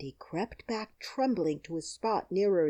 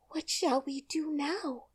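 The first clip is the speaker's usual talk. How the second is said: sad; 9 semitones higher than usual. A narrator's reading. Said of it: "asked Dorothy sadly".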